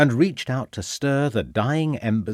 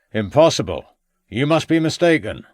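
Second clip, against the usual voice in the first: mildly raised rustic voice; old man calling out; 5 semitones higher, 4 dB louder than usual. A narrator's reading. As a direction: call back in firm disbelief. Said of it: "called out the old man".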